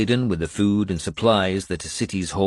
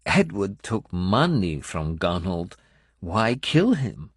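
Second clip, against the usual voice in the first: sneering; slower than usual. Acted. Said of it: "She sneered at that".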